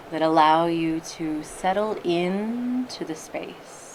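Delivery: unhurried meditation guide, long pauses between phrases; guided meditation. Acted. Teacher settling listeners into their meditation posture, guided meditation voice. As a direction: ease them gently into stillness, leaving space.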